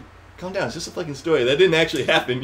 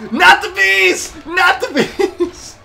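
much higher, slow, loud laughing scream; Nicolas Cage impression; 4 dB louder, slower than usual. Gamer quoting the bees meme to friends, high mock scream. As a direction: wail it like the famous meme. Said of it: "like, being".

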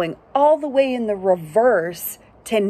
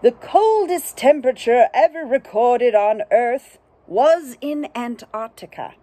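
narrator voice; 5 semitones higher than usual. Acted. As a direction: read it like a proud fact narrator. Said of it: "And the narrator says".

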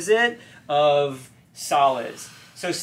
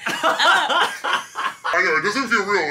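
laughing; 5 semitones higher, much slower than usual. Real, not acted. Laughing at the gas voice.

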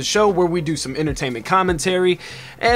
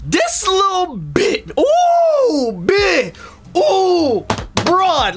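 mock whimpering; 11 semitones higher, much slower than usual. Mock whimper about a rapper.

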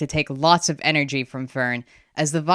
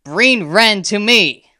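loud, slow, higher command; screamed spell; 5 semitones higher, 7 dB louder, slower than usual. A narrator's reading. Girl lifting her wand, screamed summons. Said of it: "she screamed".

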